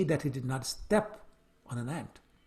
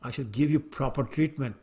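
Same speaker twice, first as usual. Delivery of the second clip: a raging master's outburst that fades into threats; angry king; 4 dB louder than usual. Acted. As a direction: scold the servant who shakes the palanquin. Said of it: "the king became even more angry and said".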